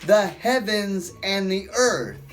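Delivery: high, slow and pleading apostle voice; slow, lifted plea to the crowd; Paul preaching. Acted. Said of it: "Paul shouting".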